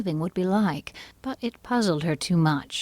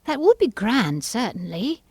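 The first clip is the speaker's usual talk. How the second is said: Alice voice; 6 semitones higher, 3 dB louder than usual. A narrator's reading. Alice character voice.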